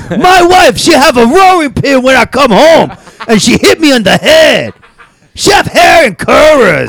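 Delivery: put-on very high, loud caricatured Asian accent; shouted Asian accent. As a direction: shriek it in a broad Asian accent. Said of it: "doing a really thick Asian accent".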